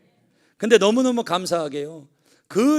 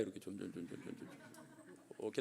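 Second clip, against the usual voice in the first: fading whisper; 11 semitones lower, 25 dB quieter, much faster than usual. Shown as a demonstration. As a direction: sink into a breathy whisper. Showing son sliding down.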